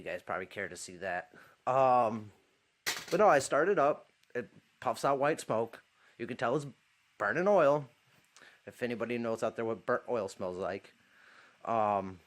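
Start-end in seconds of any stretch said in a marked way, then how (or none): 1.7-12.2 talking around a lit cigarette; words past a cigarette between lips; cigarette in mouth. Real, not acted. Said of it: "let me light my cigarette".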